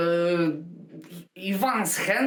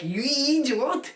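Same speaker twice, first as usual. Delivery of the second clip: drawn-out, higher imitation of a shout; retold rage, slow and raised in pitch; mock angry shout; 5 semitones higher, slower than usual. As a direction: stretch it out like a mimicked bellow. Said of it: "starting to shout at you".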